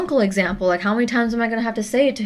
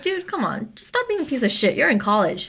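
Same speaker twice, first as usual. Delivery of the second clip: exasperated scolding; 6 semitones higher than usual. Retold or imitated. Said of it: "And just like".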